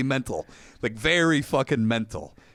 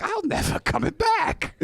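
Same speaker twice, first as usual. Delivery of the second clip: high, slow cartoonish crook retort; lightly hammed-up crazy thief; mock shoplifter voice. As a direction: squeak it out like a fleeing oddball.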